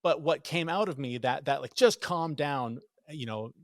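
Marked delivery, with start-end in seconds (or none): 1.7-2.8 slow, louder exasperated delivery; drawn-out, emphatic mock exasperation; retold outburst. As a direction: re-enact a mild impatient snap.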